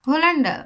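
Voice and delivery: হোল্যান্ডা with a sounded h; wrong spelling pronunciation. Shown as a demonstration. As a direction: read হোল্যান্ডা as spelt, h pronounced. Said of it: "কিংবা এটা যদি পড়ি". (ভুল উচ্চারণ হোল্যান্ডা)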